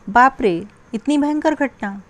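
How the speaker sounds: a horrified good heavens; mild acted horror; aghast. Shown as a demonstration. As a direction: gasp at a terrible event. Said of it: "विस्मयादिबोधक शब्द छांटना है".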